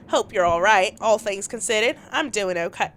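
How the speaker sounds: Southern attempt drifting into British; accent slipping British. Texting back to Mara, accent slipping into British. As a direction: let the put-on accent turn accidentally British. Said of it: "why did it turn British?".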